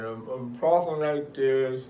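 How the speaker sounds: slurring the words; heavy-tongued slurred delivery; slurred speech. Shown as a demonstration.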